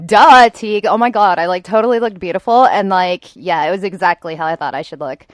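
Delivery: hammed-up Valley Girl gushing. Shaved-head expert putting on a show for Teague, mock Valley Girl. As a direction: hit the duh loud, then gush on. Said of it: "That was a Valley Girl duh".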